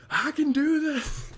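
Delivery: rally yourself like a Spartan; slow heroic war cry; Spartan yell. Retold or imitated. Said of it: "me yelling like a Spartan".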